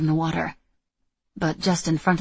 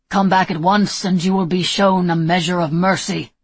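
shouting; 6 dB louder than usual. Acted. Ironwood man shouts across water.

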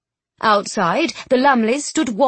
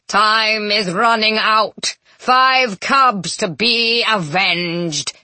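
yelled; slower than usual. Acted. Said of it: "he yelled".

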